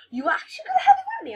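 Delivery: giggly high whisper, quick; mock high whisper. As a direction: whisper it fast in a silly high voice. Boy's whispered high question.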